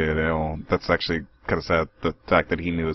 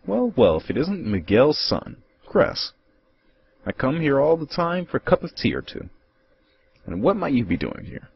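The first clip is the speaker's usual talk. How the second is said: put-on much higher old codger voice; breezy old man dropping in for tea; old visitor calling to his friend; cheery old man; 7 semitones higher than usual.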